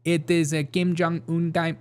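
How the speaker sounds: slow, badly faked North Korean accent; unplaceable fake accent. North Korean asked the time, muddled fake accent. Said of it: "I don't know what accent that is".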